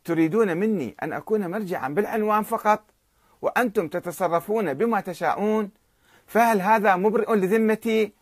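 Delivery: mild mock yell, rising on the last question; a touch of an angry outburst; retold shout. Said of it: "وهنا صاح السيد بوجهه".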